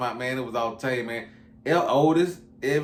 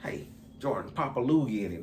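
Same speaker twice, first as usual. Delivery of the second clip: hushed retelling; 6 dB quieter than usual. Retold or imitated. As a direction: pass the word on quietly so nobody hears. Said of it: "That's how he said it".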